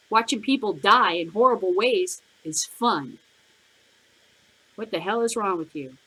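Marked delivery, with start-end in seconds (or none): none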